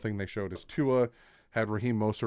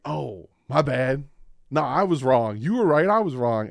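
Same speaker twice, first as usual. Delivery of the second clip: imitating Tyreek; 4 semitones higher, 8 dB louder than usual. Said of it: "And Tyreek was like".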